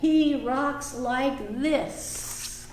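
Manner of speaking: slow, sing-song storybook read; reading to children. Acted. Teacher reading a picture book aloud to the class. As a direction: read it slowly to little listeners.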